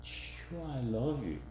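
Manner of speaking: whispered, offhand sure. Shown as a demonstration. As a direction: brush it off casually. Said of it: "That's different".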